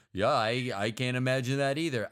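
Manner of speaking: mock Egyptian accent. Voicing an Egyptian soldier for a podcast cohost, in a weak mock Egyptian accent. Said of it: "imagine this as a, as an Egyptian accent".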